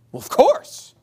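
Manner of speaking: high, careless mock reply. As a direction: toss it off like an obvious yes. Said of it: "I always say to them".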